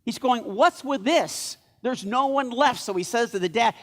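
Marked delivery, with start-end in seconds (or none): 0.4-2.8 higher, exasperated complaint, lightly acted; acted frustration. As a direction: play mild exasperation, drawn out. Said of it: "Samuel is really frustrated".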